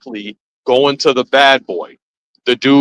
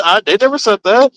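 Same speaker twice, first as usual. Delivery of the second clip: retorting; 8 semitones higher, 3 dB louder than usual. Retold or imitated. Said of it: "I said".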